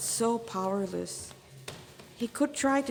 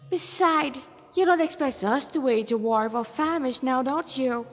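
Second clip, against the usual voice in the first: higher, mocking demon voice; smug demon; 4 semitones higher, 3 dB louder than usual. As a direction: tease them like a well-fed host. Demon character voice.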